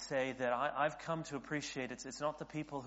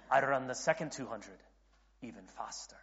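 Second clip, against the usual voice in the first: bad Scottish accent. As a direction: try an amateur Scottish accent. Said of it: "my bad Scottish accent".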